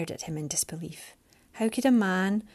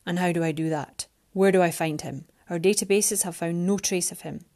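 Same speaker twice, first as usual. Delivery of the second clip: Alexander's voice; 2 semitones lower than usual. Acted. Alexander presses her.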